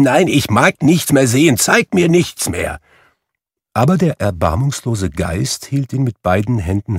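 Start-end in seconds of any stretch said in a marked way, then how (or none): 0.0-2.8 loud, higher pleading cry; crying out in protest. A narrator's reading. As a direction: beg loudly to stop. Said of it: "rief Scrooge".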